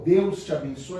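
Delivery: gentle, kindly blessing. Shown as a demonstration. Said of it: "Vocês veem a diferença até da, da entonação da voz".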